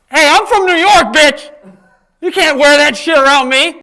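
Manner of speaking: loud, high-pitched confrontational yell; mock-angry New Yorker. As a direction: play a hammed-up New Yorker picking a fight. Acted New Yorker confronting costume wearer.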